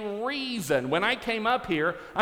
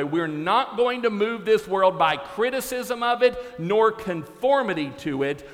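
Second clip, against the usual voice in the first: preaching. Acted. Preacher quotes a saying to the congregation, preaching. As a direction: preach it with fire.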